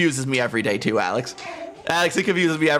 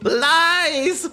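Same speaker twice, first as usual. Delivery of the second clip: playful protest; 13 semitones higher than usual. Real, not acted. Brushing off a chatter's compliment, high yelp. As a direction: shriek the denial. Denies being called cute.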